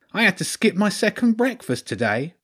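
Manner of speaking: high, aggrieved rat lord; Lord Ratzenberg. Acted. Hungry rat lord missed second breakfast, high lamenting voice. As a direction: complain in a high-pitched rat voice. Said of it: "he sighed".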